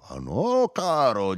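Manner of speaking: high-pitched protest; crying out. A narrator's reading. Narrator contradicts Firmo, crying out. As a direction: cut him off with a high cry. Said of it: "gli gridai".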